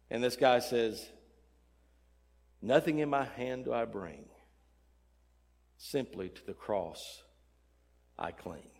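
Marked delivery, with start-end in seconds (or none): 2.6-8.7 hushed recited hymn line, long pauses; reverent, fading humility; humble confession. Acted. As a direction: let it sink lower and softer, phrase by phrase. Humble fourth man answers with hymn.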